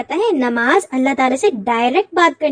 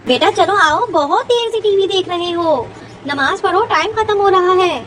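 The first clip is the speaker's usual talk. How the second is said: urging; 4 semitones higher than usual. Acted. Mother hurries son to prayer.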